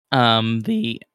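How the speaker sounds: ordinary talk, nothing marked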